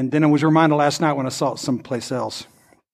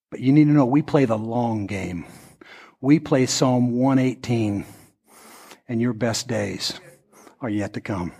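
tender reassurance; 3 semitones lower, 3 dB quieter than usual. Real, not acted. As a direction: speak gently to the hurting. Pastoral reassurance to hurting people.

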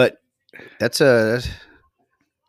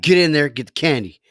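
urging shout; 7 semitones higher, 10 dB louder than usual. Retold or imitated. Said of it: "And I was like".

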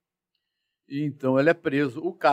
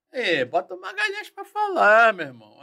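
colleague passing the buck; 8 semitones higher, 5 dB louder than usual. Retold or imitated.

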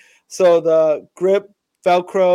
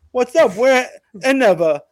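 higher, louder salesman's hello; a keen brand rep making the first approach; eager sponsor pitch; 7 semitones higher, 5 dB louder than usual. Retold or imitated.

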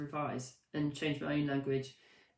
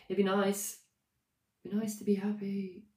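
unconvincing; 3 semitones higher than usual. Shown as a demonstration. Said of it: "Ooh, not convinced".

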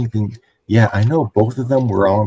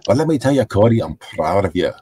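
amateur impression of a wrestler's promo; bad Drew McIntyre impersonation; faster than usual. Podcaster as a wrestler praising Cody, badly impersonated. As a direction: put on a wrestler's earnest speech, badly faked. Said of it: "I'm doing a bad Drew McIntyre impersonation".

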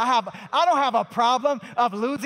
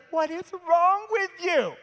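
shocked bystander; 9 semitones higher, 4 dB louder than usual. Retold or imitated. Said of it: "they're like".

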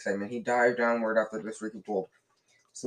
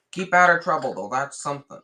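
Hagrid; 4 semitones higher, 7 dB louder than usual. A narrator's reading. Hagrid voiced in read-aloud story.

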